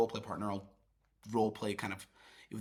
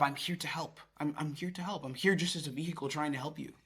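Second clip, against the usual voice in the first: softer, sincere reassurance; helpful tone; 6 dB quieter than usual. Shown as a demonstration. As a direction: quietly offer yourself as a helper. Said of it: "The tone is one of".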